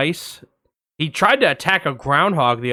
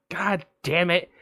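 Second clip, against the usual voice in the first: exasperated muttered curse; 6 dB quieter than usual. Retold or imitated. Her exasperated reaction to cat.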